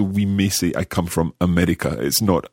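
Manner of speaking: usual speaking voice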